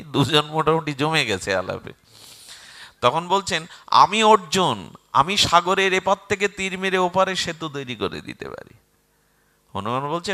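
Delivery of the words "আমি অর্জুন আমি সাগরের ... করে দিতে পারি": proud boast. Acted. Arjun claims he can bridge the sea, proud boast. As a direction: declare your might to a rival.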